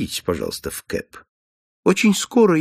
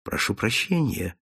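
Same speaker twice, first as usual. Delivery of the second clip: softer, kindly apology; gently; 5 dB quieter than usual. Acted. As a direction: soothe the frightened man. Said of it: "ласково сказал Холмс". (ласково и мягко, тише)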